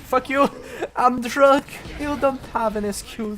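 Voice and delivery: high, very loud curse; angry shout. Real, not acted. Gamer cursing an enemy who got him, angry shout. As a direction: hurl it at the enemy.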